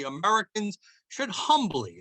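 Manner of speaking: humbly leaned on, said with weight; stress on humbly. Real, not acted. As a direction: put real weight on humbly. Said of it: "and I stress the word humbly".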